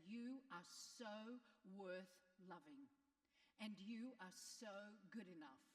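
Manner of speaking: slow and sincere, leaning on you; mean every word; with your heart in it. Shown as a demonstration. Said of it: "You're gonna look at them and say".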